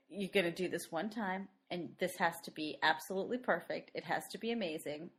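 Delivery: a hint of a creepy director, pressing low and quiet. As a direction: lean in softly and press her to be perfect. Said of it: "it is a creepy moment when he's like".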